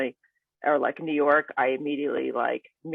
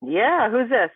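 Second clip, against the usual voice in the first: sharp, loud who's this; 7 semitones higher, 6 dB louder, much slower than usual. Pretend. Answers role-play call, suspicious.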